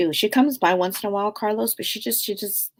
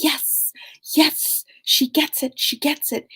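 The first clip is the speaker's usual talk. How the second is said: lightly voiced dad, higher and pleased; a hint of the proud father, pitched up; dad's voice; 8 semitones higher, slower than usual. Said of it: "And he's like".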